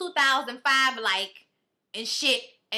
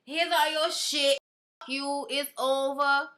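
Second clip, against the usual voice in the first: mock angry; 2 semitones higher, slower than usual. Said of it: "throws all this shit outside saying".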